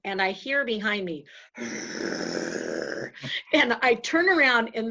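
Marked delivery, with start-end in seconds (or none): 1.6-3.5 low rolling growl; dog growl. Retold or imitated. Storyteller imitates the pit bull on the porch, growling. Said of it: "growling at me".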